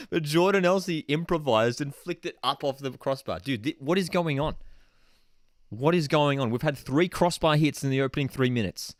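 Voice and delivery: freaking out. Real, not acted. Watchalong host stunned by repeated crossbar hits, freaking out. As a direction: react in amazed disbelief. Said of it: "I'm freaking out so much".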